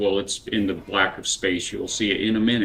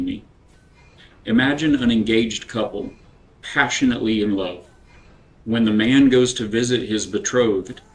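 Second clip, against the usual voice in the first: measured reading with long pauses between phrases; devotional reading. Acted. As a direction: read scripture-style devotional deliberately, letting each phrase land. Reads the devotional aloud.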